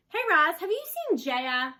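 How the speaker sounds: put-on loud boy's call, slowing at the end. A narrator's reading. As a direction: call out like an eager boy. The boy bursts in calling.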